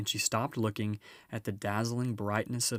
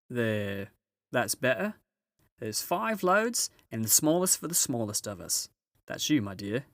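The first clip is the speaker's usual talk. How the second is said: a brisk, busy housewife giving orders; Mrs Beaver; 2 semitones higher, 3 dB louder than usual. Acted.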